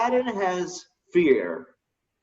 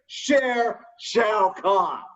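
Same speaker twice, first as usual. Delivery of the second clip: mock announcer; 5 semitones higher, much slower than usual. Announcing mock boss name.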